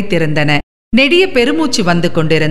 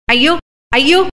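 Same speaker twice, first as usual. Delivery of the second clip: higher, lightly acted cry of alarm; அலறல்; 4 semitones higher than usual. A narrator's reading. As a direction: narrate a woman's mild wail of dismay. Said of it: "என்று அலறினாள்". (லேசாக நடித்த, உயர்ந்த குரல் அலறல்)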